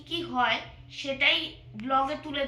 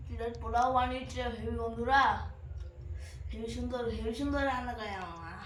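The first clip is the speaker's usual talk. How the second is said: mouth full; 3 semitones lower than usual. Real, not acted. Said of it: "খাচ্ছ?".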